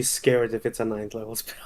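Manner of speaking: whispered nervous aside. Real, not acted. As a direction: breathe it out like a worried secret.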